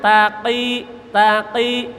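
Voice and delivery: TAQI with q caught deep in the throat; deep clicked qaf. Shown as a demonstration. Teacher contrasting qaf with kaf, deep q. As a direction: click the q of TAQI far back. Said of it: "Kalau qaf ada ceklukannya".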